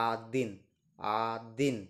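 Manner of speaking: আদিন as adin, stress on the second syllable; Russian adin, teacher's model; say after me. Shown as a demonstration. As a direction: model আদিন for the class to repeat. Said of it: "আমার সাথে উচ্চারণ করুন".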